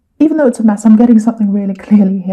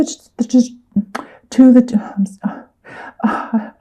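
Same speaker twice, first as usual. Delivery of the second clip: stumbling over words, trailing to a whisper; tongue-tied stammer; stuttering; 3 dB quieter, much slower than usual. Real, not acted. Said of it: "I'm stuttering".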